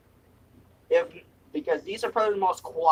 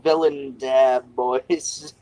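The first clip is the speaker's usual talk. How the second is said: slow villain announcement; 3 semitones lower, 4 dB louder, much slower than usual. Acted.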